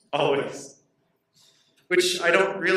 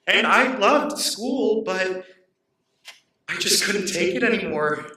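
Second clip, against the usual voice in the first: distressed; 6 semitones higher, 3 dB louder than usual. Acted. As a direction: let the pain push your pitch up. Anguished recollection of school bullying.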